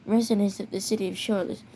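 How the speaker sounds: reading an official emergency bulletin, mild announcer voice; emergency alert announcer. Acted. Warning Charlotte residents of a made-up danger, mock announcer read. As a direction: play the serious alert voice, lightly done.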